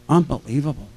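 lightly put-on Italian accent; Italian-accented retold exclamation. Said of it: "with another Italian accent".

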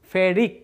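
ফেরিক said clearly as "ferik"; pronounced name. Shown as a demonstration. Teacher showing students the -ic name: ফেরিক said clearly. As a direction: land on ফেরিক as the answer, clearly. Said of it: "তখন তার উচ্চারণটা হবে".

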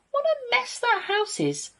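very high aghast wolf; gasped dismay. A narrator's reading. Friendly builder wolf seeing a messy house, gasped dismay. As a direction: exclaim in high-pitched horror. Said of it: "gasped the wolf".

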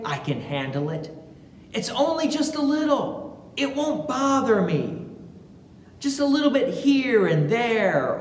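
a hint of a tempted voice talking itself into it; tempted sinful nature. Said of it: "our sinful human nature wants to sit there and say".

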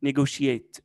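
"نيجوشيت" with SH in place of the first T. Shown as a demonstration. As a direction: put a clear SH in "نيجوشيت". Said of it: "التي هنا بننطقها ش".

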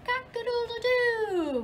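high, loud crowing rooster. Acted. Teacher crowing like the rooster for the kids, high and loud. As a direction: crow it out like a proud rooster.

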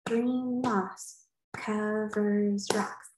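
slow, deliberate, each syllable weighed; teacher slowly tests her haiku line on kids; slow trying out the line. Shown as a demonstration. Slow careful try-out. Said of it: "That's five syllables".

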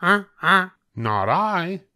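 a goose flatly refusing. A narrator's reading. Goose refusing to help the hen in a high voice. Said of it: "said the goose".

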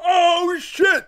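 very high yelp into the mic; yelling. Real, not acted. Player startled at the microphone, high-pitched yell. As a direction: cry out long and high. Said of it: "Stop yelling into the microphone".

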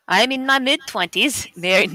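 attempted German accent while reading. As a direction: read it in an amateur German accent. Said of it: "Everybody has to do their best German accent".

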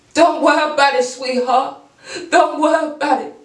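high sing-song don't worry about it, sweetheart; mock sweet dismissal. Brushing off doubters about her mental health, high sugary dismissal. Voices herself answering critics.

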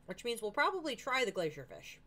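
"try" emphasized above the rest; stress on TRY. Real, not acted. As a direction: punch the word "try". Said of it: "Emphasis on the word try".

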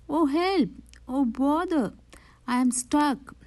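high-pitched cry for help; mild distress. A narrator's reading. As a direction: wail a little, stuck and helpless. Pooh is stuck in the hole.

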